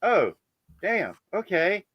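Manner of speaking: mock embarrassed relief; lightly voiced woman letting it go; relieved lady. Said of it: "she's like".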